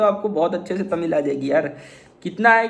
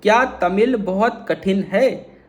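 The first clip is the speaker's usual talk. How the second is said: slow Hindi demo; slower than usual. Shown as a demonstration. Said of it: "ये इसको pronounce करके बताओ".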